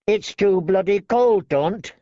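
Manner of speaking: thin man grumbling about cold; Lark whining. A narrator's reading. Lark complains.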